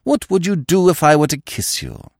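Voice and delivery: high, playful flirt; mock flirting. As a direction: woo her with a grin. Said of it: "Go to her and say".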